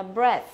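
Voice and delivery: breath with a short open E. Shown as a demonstration. Teacher models breath with a short E. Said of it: "nó sẽ là âm E".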